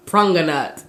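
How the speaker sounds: "pranganat" said as Patois for pomegranate; imitated Patois pronunciation, "pranganat"; Jamaican Patois. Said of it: "translating it into the Patois dialect".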